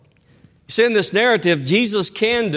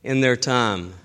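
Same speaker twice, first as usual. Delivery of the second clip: gentle scripture reading. Shown as a demonstration. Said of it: "in Ecclesiastes three it says".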